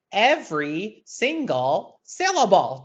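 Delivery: "Every single syllable" very slowly, with gaps between words; slow, separated "Every single syllable" for a class to follow; slow syllable drill. Shown as a demonstration. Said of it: "So do that with me now".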